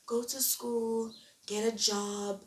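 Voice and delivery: slow, drawn-out mock advice; imitating predictable advice, words dragged out; mimicked advice. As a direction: stretch it out like a tired old lecture. Mimics people giving standard life advice.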